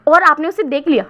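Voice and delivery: eager friend blurting out the question; excited outburst. Acted. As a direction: blurt it out too loud in excitement. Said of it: "चिल्ला क्यों रहे हो".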